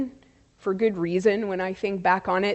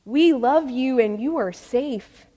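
gently voiced, mild reassurance; calmly steady someone who doubts himself. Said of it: "she said so calmly".

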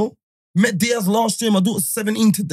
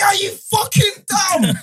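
high, slow yelled insult; mock shouted are you dumb; 3 dB louder, slower than usual. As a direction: yell it up high in disbelief. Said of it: "she's like".

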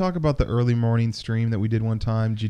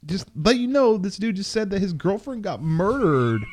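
much higher, stunned whisper-talk; high incredulous voice; 8 semitones higher than usual. Retold or imitated. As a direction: pitch it up in disbelief. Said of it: "And I'm like".

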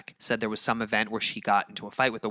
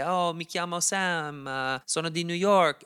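Italian phrases; 6 semitones higher than usual. Shown as a demonstration. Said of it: "So I'd say".

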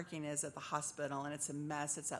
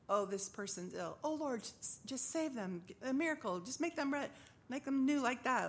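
put-on old way of praying; 6 semitones higher than usual. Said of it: "changed my prayer life to not like".

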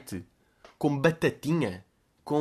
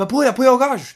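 rugby call shout; 10 semitones higher, 6 dB louder than usual. Retold or imitated. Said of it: "é tipo".

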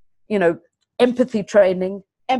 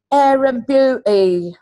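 slow, louder Midland accent, imitating the kid; 4 semitones higher, 6 dB louder, slower than usual. Banbury kid answering over Skype, mock Midland accent. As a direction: drawl it like a Midland teenager. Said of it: "Midland accent".

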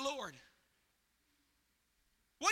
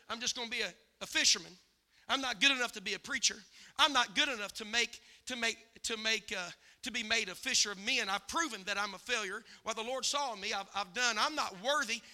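lower, subdued self-doubt; a defeated confession, pitched down; voicing Simon Peter; 5 semitones lower, 3 dB quieter than usual. Preacher voices discouraged Simon Peter.

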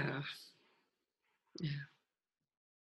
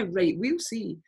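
playful; 5 dB quieter, slower than usual. Retold or imitated. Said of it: "there's a playfulness about it now".

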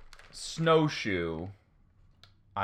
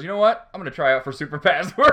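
mock fugitive; 5 semitones higher, 7 dB louder than usual. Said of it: "and he goes".

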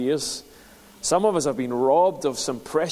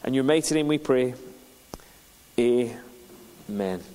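prayer. Real, not acted. Pastor prays before the sermon.

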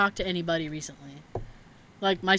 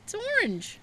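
imitating dad; 11 semitones higher than usual. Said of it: "And he goes".

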